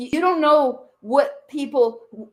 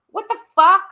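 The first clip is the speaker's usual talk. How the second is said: higher and louder, real disbelief bursting out; exasperated shout; 7 semitones higher, 9 dB louder, faster than usual. Real, not acted. Fed up with her deflecting on stream, an angry outburst. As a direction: blurt it out, fed up.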